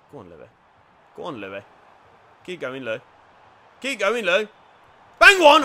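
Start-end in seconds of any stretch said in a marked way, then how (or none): 3.8-4.5 excited shout of encouragement; louder urging. Real, not acted. Urging his player on. 5.2-5.6 shouted, much higher and louder; sharp excited yell; yelled urging. Real, not acted. Urging a shot.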